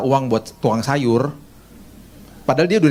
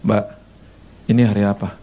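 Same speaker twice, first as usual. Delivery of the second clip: calm question; 6 semitones lower than usual. Retold or imitated. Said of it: "saya cuman gini".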